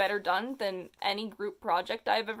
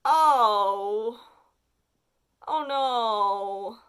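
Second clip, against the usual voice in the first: higher, louder groaning ohs of real disgust; cringing disgust; 4 semitones higher, 7 dB louder, much slower than usual. Real, not acted. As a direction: squirm through every oh. Horrified at kiss scene.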